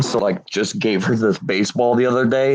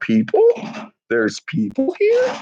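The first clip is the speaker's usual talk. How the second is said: very high, swooping, excited little puppy voice. Showing viewers a puppy who just woke and got excited: voicing the excited puppy. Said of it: "She's like".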